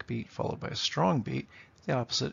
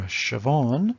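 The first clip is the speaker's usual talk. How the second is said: shi-VAWN, weight on the second syllable of "Siobhan"; weak-strong beat on "Siobhan"; iamb stress; 2 semitones higher, 6 dB louder than usual. Shown as a demonstration. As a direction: lean on the end of "Siobhan". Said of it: "it's an iamb".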